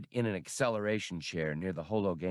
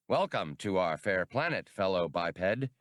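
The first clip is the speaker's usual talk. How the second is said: forced heartiness. Acted. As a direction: overdo the friendliness a little. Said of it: "with an effort at heartiness".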